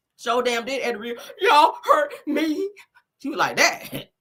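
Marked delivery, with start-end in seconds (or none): 1.4-2.7 put-on high, drawn-out tearful blubbering ugly cry. Acting out a woman apologizing and playing victim on the show, imitating someone ugly crying. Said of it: "ugly crying and everything on that stage".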